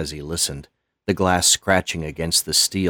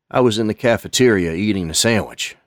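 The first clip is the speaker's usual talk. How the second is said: Lonnie's voice; 3 semitones higher, 4 dB louder, faster than usual. Acted. Lonnie starts his story.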